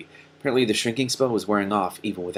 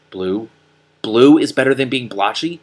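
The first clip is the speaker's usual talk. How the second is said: rising, louder disbelief on Blue; incredulous echo; 8 dB louder than usual. Acted. Donkey Killer echoing Morwen in outrage. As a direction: throw the words back in disbelief.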